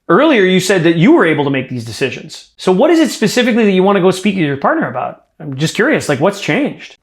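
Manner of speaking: curious, puzzled disbelief with lively pitch swings; demonstrating an incredulous coaching tone. Shown as a demonstration. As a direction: question it as if it doesn't add up. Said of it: "I want you to be incredulous".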